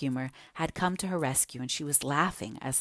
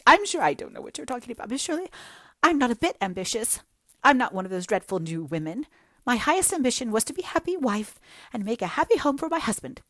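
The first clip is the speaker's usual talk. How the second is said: high, loud, self-pitying lament; jilted girl pouring out woe to Anne; melodramatic young woman; 8 semitones higher, 3 dB louder, faster than usual. Acted. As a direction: wallow in every word like a tragic heroine.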